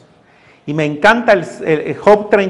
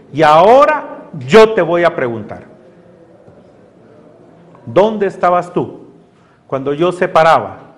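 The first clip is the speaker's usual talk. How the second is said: God questioning Job. Retold or imitated. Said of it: "el Señor a Job".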